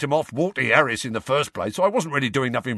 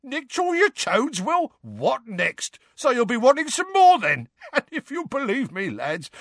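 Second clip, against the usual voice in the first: high, strained voice breaking into laughs; Mundungus, choked with laughter; 4 dB louder than usual. A narrator's reading. Rogue telling friends how he swindled Will, choked with laughter. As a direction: tell it through helpless laughter, pitched right up. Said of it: "choked Mundungus, tears running down his face".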